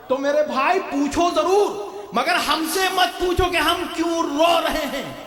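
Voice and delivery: high, drawn-out oratorical cry; impassioned preaching. Real, not acted. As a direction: exhort the crowd, stretching the key words. Preaches at full force.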